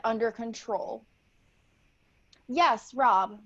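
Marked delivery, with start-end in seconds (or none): 2.5-3.4 lightly voiced excited little girl at a press conference; a hint of a young girl answering reporters; ten-year-old girl. Eager young witch-to-be answering press questions, lightly girlish.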